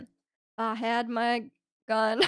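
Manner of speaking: slow, drawn-out Texan accent. Shown as a demonstration. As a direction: drawl it like a Texan cowboy. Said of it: "in a Texan accent".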